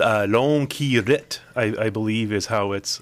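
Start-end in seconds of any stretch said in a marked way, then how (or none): 0.0-1.4 halting attempt at a French accent; bad French accent. Real, not acted. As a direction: stumble through it in shaky French. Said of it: "that was not a good French accent".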